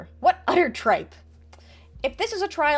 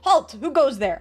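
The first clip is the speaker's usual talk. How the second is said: guard's call; 2 semitones higher, 5 dB louder, slower than usual. Acted. Reading patrolman's challenge aloud.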